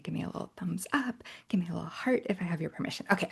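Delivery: normal talking voice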